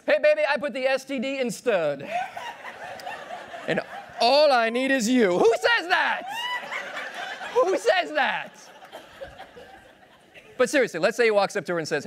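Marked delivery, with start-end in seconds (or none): 0.1-5.4 sleazy pickup line. Acted. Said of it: "cheesy pickup lines". 5.4-8.5 laughing disbelief. Real, not acted. Shocked reaction, laughing.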